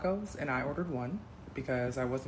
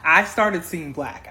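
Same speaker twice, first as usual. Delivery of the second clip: much louder, slow, seething; heated anger; 2 semitones higher, 11 dB louder, slower than usual. Real, not acted. Telling viewers about the date, loud slow seething. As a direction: rage boils over, slowly.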